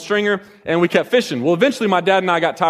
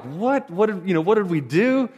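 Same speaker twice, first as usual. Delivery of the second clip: surprised; 3 semitones higher, 3 dB quieter than usual. Retold or imitated. Detained, shocked reaction.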